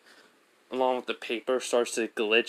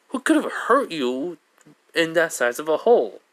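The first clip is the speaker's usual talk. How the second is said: sly teasing; 5 semitones higher, 5 dB louder than usual. Retold or imitated. Izuku teasing Mineta.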